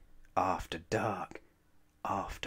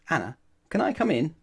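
put-on child calling through door; 8 semitones higher, 8 dB louder, much faster than usual. Nat calls through the door.

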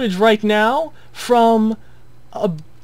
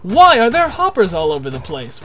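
a louder, demanding question in a viewer's mock outrage; mock indignation; 6 dB louder than usual. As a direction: grill yourself as a baffled viewer. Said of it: "you might ask".

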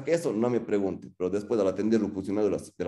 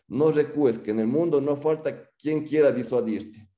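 emphatic quote; 5 semitones higher, 3 dB louder, slower than usual. Retold or imitated. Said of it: "Nietzsche decía".

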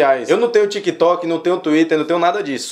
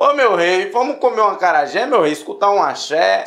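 singsong TV caricature of Bahian speech; mock Bahian lilt; soap-opera Bahian accent. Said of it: "Baiano nas novelas da Globo fala assim".

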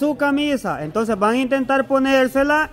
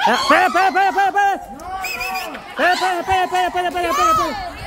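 urgent excited calls; 5 semitones higher, much faster than usual. Real, not acted. Game host halting players mid-round, laughing. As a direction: stop them in a rush, laughing.

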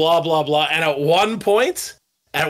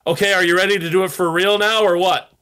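impatient jab; 4 semitones higher, faster than usual. Retold or imitated. Producer pushing exhausted drummer for real take, impatient. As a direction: needle him to get it done, a touch higher. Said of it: "and I'm like".

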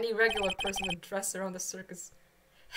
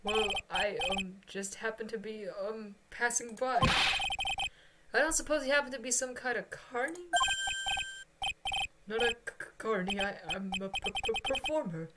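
halting, stammering nervous voice; nervous stammering man. Acted. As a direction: stutter through every word nervously. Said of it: "voice nervous Mister Bean".

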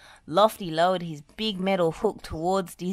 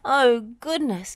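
high, loud exclamation; startled raised voice; gasping; 7 semitones higher, 7 dB louder than usual. A narrator's reading. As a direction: exclaim in surprise. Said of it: "gasped Wendy".

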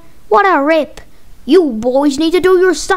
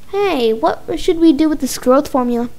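ordinary delivery

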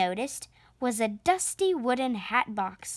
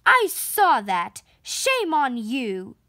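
loud, slow stern rebuke; a teacher telling off a pupil; scolding; 6 dB louder, slower than usual. Acted. Miss Briggs telling Belinda off in front of the class, stern. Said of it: "scolded Miss Briggs".

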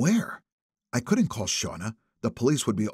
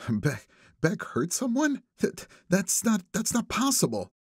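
disbelief; 9 semitones higher than usual. A narrator's reading. Shauna disbelieving.

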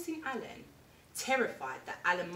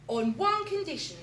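higher, louder parrot voice; Parrot's condition; 8 semitones higher, 6 dB louder than usual. Acted. Parrot sets terms for Alan, high parrot voice. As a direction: squawk the condition firmly. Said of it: "said Parrot".

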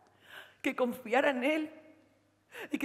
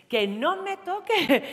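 angry; 9 semitones higher, 3 dB louder, much slower than usual. Acted. Angry girlfriend pushing Lolo away.

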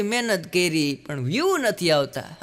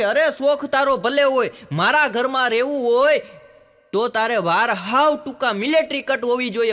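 scolding father; 4 semitones higher, 4 dB louder than usual. Acted.

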